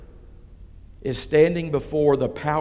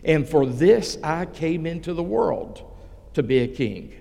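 Jesus, very bold. Acted. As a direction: answer with measured, understated boldness. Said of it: "Jesus answered very boldly and said".

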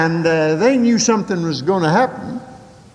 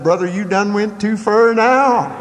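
raised-pitch mock holler; retold yell back; 4 semitones higher than usual. Exasperated listener alone, answering the radio preacher, mild mock yell. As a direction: holler back, only half at full volume. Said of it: "I yelled back at him".

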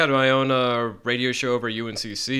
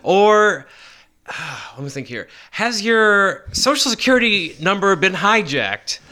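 louder, higher telemarketer pitch read; a friend spoofing a telemarketer in a radio voice, higher and louder; 6 semitones higher, 5 dB louder than usual. Pretend. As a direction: sell it like a radio ad. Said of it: "you absolutely had a radio voice".

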